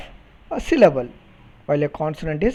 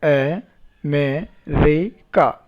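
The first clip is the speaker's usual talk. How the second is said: "A, me, re, ka" with a pause after each syllable; slower than usual. Shown as a demonstration. Teacher counting syllables for a class, "A, me, re, ka" spoken one by one. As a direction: break "A, me, re, ka" into four separate beats. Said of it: "So four syllables".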